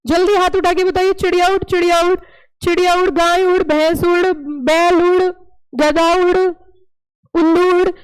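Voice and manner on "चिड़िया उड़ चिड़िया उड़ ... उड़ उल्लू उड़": game caller. Acted. Teacher leading a children's game.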